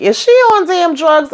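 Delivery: high-pitched, exasperated question; acted incredulity. Victoria asking about Lily's behavior, high incredulous voice. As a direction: squeal the question in mock disbelief.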